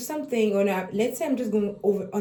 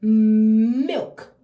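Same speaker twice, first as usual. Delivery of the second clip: put-on baby talk; 2 semitones higher, 5 dB louder, much slower than usual. Shown as a demonstration. Parent handing baby milk, clear teaching voice. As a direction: offer the bottle naming milk clearly. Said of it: "be like".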